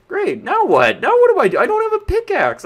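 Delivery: high and loud frustrated cry; real disbelief spilling over; exasperated outburst. Real, not acted. Stranded without pickaxe, exasperated.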